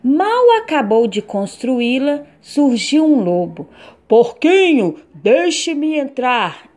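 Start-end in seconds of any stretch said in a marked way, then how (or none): 4.1-6.7 wolf voice. Acted. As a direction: call out slowly like the wolf. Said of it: "ele gritou".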